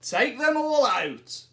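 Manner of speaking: put-on wise old man. A narrator's reading. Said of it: "said the wise old man".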